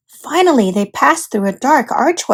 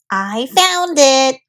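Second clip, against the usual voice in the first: cried; 2 semitones higher, much slower than usual. Acted. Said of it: "cried Olivia".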